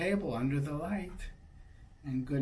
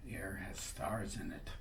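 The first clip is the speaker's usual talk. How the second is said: much softer whispered aside; 7 semitones lower, 8 dB quieter than usual. Real, not acted. Parent whispering to the sleepy child about the stars. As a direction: hush it, almost silent.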